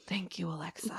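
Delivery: very soft, near-whispered gratitude; meek thanks. Retold or imitated. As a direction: thank the robot timidly under your breath.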